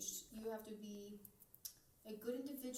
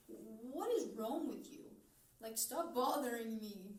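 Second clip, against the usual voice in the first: slow, louder fed-up snap at her brother; annoyed retort; 5 dB louder, slower than usual. Retold or imitated. Fed up with a nosy brother, a slow louder annoyed retort. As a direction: drag it out, exasperated.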